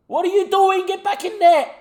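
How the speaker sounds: high, loud exasperated shout; frustrated scream at a defender on screen; angry yell. Real, not acted. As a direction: bark at the player to get back. Defender out of position, live game.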